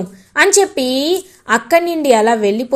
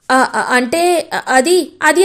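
halting, stumbling start; stammering. Acted. Bhoomi flustered when asked about Gagan's love, stammering. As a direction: fumble for words, caught out. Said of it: "అని తడబడుతూ".

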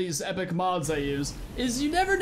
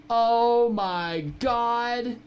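drawn-out dismay; 4 dB louder, much slower than usual. Real, not acted. Finds his pet missing.

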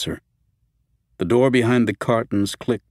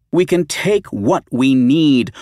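angry; 7 semitones higher, 7 dB louder, slower than usual. Acted. First take, angry.

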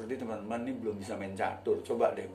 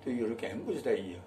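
local accent English; 3 semitones higher, 3 dB louder, slower than usual. Shown as a demonstration.

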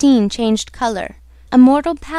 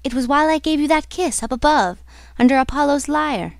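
mildly distressed, higher heroine; unpacified; 4 semitones higher than usual. Acted. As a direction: recall it with rising upset. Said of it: "Christine refused to be pacified".

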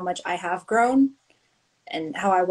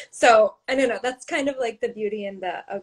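crying. Real, not acted. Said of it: "now I'm crying".

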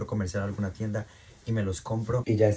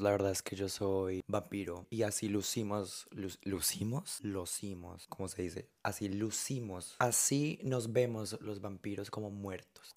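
much softer, secretive confession; spooky hush; 2 semitones lower, 10 dB quieter than usual. Pretend. To the chicos, hushed vampire confession.

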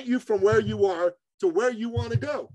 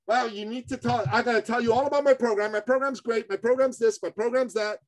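hurried, higher put-on voice of a salesman bragging; mocking pushy coaches; 3 semitones higher than usual. Mimicking coaches who push their program on clients, mocking and rushed. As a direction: rattle it off like someone who only talks about their own program. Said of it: "the problem is that most folks".

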